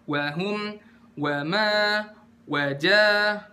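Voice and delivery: "Wahum, wama, wajah" with an unhurried "wa"; full one-beat waw. Shown as a demonstration. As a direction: give each "wa" its whole count, pausing between words. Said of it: "satu harokat".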